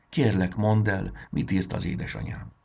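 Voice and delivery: put-on a child begging the fairy queen, eager; eager plea. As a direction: beg to hear the letter. Child begs for mother's message.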